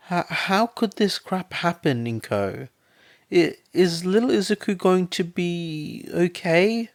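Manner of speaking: high, loud, panicked questions; frightened pleading. A narrator's reading. Frightened mother asking her friend about Izuku. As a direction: beg for reassurance, voice pitched high and loud.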